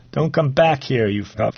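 put-on angry teen hollering down the stairwell; yelling down stairs. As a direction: shout down the stairs at the other boy. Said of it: "he yells down the stairs".

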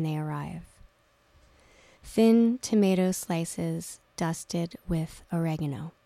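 measured, deliberate reading of a list from her novel; unhurried author's reading voice; author reading aloud. Acted. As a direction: read each item as its own small moment, pausing between.

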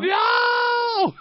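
very high drawn-out wail; mock dismayed cry. Mock dismay at squatting dog.

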